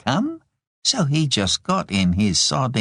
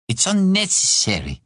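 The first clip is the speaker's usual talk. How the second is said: curt, higher-pitched retort; snapped; 8 semitones higher than usual. A narrator's reading. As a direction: snap back, rejecting the gifts. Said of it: "Daphne snapped".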